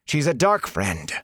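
high, slow accusation; bitter, drawn-out accusation; spat out. A narrator's reading. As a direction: spit the accusation out slowly. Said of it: "Matt spat the word".

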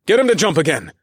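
loud, firm command. A narrator's reading. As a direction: bark the order at the crew. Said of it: "I commanded".

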